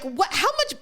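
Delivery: very high, startled cry; shocked squeal. Retold or imitated. Host imagining seeing the date, high shocked squeal. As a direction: shriek in disbelief.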